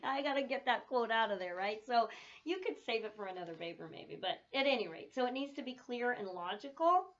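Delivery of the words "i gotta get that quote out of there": laughing give-in. Retold or imitated. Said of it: "I'm like".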